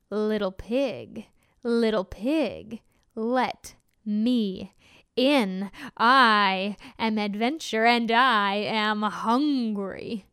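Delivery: slow, heavy wolf voice; menacing hungry wolf, drawn out. Acted. Wolf voice in story.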